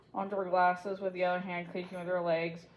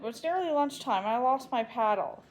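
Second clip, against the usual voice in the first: higher whiny protest; 4 semitones higher than usual. Acted. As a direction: complain to get out of it. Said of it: "Susan protested".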